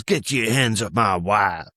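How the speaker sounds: slow mock-redneck warning; threatening redneck. Muscly husband warns off the comedian, threatening. Jealous redneck confronts him.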